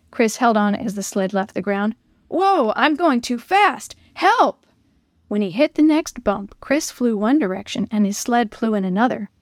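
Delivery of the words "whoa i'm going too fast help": rising high frightened cry for help; panicked cry. Acted. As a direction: yell in growing panic as the sled speeds. Sled out of control downhill.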